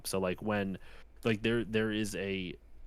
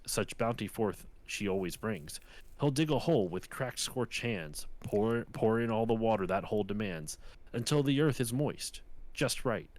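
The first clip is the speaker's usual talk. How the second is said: lightly performed cowboy poem, measured verse rhythm; poem recitation. Retold or imitated. Podcaster reading a lonesome cowboy's poem to friend, lightly recited. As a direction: recite it as earnest rhymed verse.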